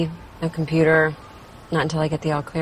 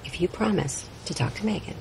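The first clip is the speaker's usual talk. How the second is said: whispering; 5 dB quieter than usual. Acted. Bargaining softly with friend.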